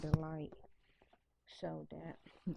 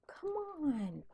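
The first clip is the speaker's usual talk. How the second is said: whispered coax; 9 semitones higher, 5 dB quieter than usual. Real, not acted. Coaxing dog, whispered.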